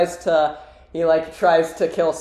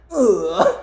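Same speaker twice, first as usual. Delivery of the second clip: short put-on grunt; mock strained grunt; Shadow's grunt; 4 semitones higher than usual. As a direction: imitate a startled character's groan. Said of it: "and Shadow's like".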